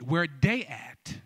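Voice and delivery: slow AAVE "Where they at" with "they" as "dey"; AAVE pronunciation. Shown as a demonstration. Host demonstrates the response to the crowd in AAVE. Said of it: "added a little A A V E".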